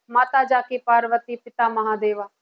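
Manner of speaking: low, evenly metred aarti line; aarti recitation. Shown as a demonstration. Teacher continuing the aarti after a pause, low rhythmic recitation. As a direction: recite as one unbroken devotional line. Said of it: "फिर वहां पे पोज आएगा".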